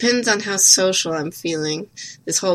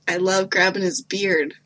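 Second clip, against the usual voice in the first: ordinary talk, nothing marked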